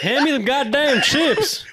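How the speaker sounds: gruff mock voice. Mocking friend's demand.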